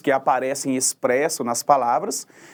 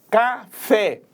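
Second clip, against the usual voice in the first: "café" split, higher, landing on "fé"; stress on last syllable; 5 semitones higher than usual. Shown as a demonstration. Teacher checking the class understood, final stress on "café". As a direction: separate "ca" and hit "fé". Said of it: "Na última sílaba".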